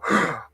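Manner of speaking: a sudden gasping breath in, like a TV patient coming back; mock revival gasp. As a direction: gasp back to life, hammed-up. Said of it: "they go".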